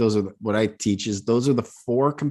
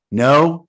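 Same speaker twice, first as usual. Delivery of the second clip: "no" higher and punched louder; varied tone demo; 4 semitones higher, 7 dB louder than usual. Shown as a demonstration. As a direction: hit "no" hard, pitched up. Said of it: "How am I saying it".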